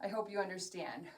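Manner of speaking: breathless talk mid-workout; winded, talking through exertion; out of breath. Real, not acted. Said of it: "if I really sound like I'm out of breath".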